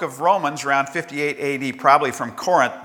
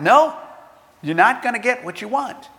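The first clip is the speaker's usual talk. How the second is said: emphatic divine no; 6 semitones higher than usual. Acted. God's flat no to a prayer.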